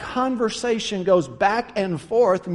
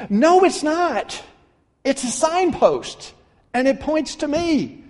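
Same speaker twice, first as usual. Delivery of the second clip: Jesus correcting; 6 semitones higher than usual. Acted. Jesus answering the crowd, firm and slow. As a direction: correct them with authority.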